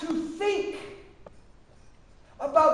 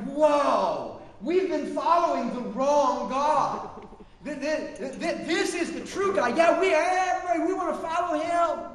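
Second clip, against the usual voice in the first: awed crowd; 3 dB louder than usual. Retold or imitated. Crowd awed after fire falls.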